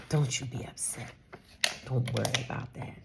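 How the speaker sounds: imitated Nigerian accent, reassuring; light Nigerian-accented mimicry. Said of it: "in her very thick Nigerian accent".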